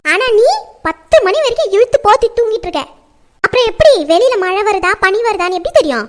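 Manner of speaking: nagging morning telling-off; scolding. Acted. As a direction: tell off a lazy daughter. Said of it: "என்னம்மா காலையிலே கத்திட்டே இருக்கீங்க".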